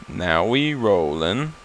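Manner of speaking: a slow, hushed "Now we rollin'". Shown as a demonstration. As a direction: echo it under your breath. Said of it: "Now we rollin'".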